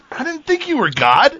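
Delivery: laughing. Retold or imitated. Recalling camp confusion to friends, laughing. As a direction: laugh at the absurd misunderstanding.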